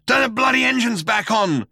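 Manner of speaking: high, strained bawl. A narrator's reading. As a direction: bawl the order at the computer. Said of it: "bawled Zaphod".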